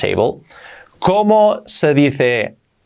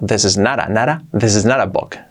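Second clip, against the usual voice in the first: said fast; 3 semitones lower than usual. Shown as a demonstration. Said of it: "Dicho rápido".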